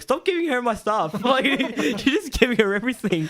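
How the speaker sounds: whining at mum at the dinner table; whiny protest. Retold or imitated. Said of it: "I'm like".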